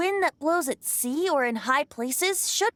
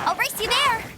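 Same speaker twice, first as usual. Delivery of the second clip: playful challenge; 10 semitones higher than usual. Acted. Playful challenge before a race.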